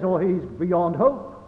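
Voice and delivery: slowly, a touch of hopeless lament; drawn-out sigh of giving up; slow, mock despairing. People giving up on a dead sinner, slow lament. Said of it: "We says".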